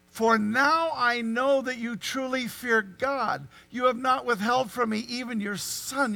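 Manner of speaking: very slow, solemn angel's words. Acted. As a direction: draw out each word like a heavenly verdict. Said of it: "the angel said".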